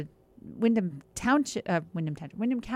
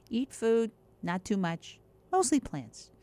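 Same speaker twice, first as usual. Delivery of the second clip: put-on Yiddish accent; 3 semitones higher than usual. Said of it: "should be said in a Yiddish accent".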